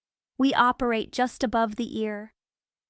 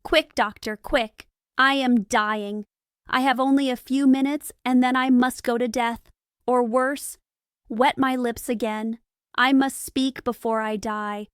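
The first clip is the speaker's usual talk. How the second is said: mildly pressed, a touch stronger; hurried and stronger. Acted. Dying Renfield urging the doctor on, lightly hurried and stronger. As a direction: hurry the plea without much push. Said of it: "hurried and stronger".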